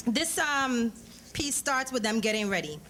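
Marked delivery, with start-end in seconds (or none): none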